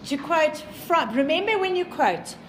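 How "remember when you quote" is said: REMEMBER hit hard, then the rest; stress on remember. Shown as a demonstration. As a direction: lean on the word Remember like a warning. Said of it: "please, this is very important".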